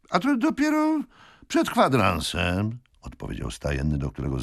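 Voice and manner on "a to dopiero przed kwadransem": stableman's answer. A narrator's reading.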